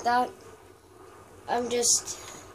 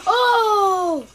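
laughing cry; 9 semitones higher, 11 dB louder than usual. Real, not acted.

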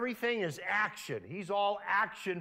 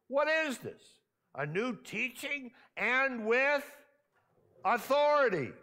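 amazed; 7 semitones higher, 3 dB louder than usual. A narrator's reading. Amazed crowd quoted.

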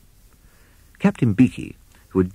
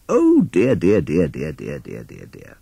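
fading dismay; 3 semitones lower, slower than usual. Acted. Owl dismayed at bat's signal.

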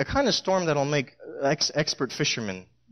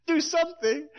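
panicked fishermen; 7 semitones higher than usual. Retold or imitated. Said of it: "wake him and say".

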